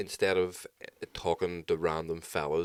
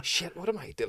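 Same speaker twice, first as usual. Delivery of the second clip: panicked realisation; 10 semitones higher, 4 dB quieter than usual. Retold or imitated. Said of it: "and you're like".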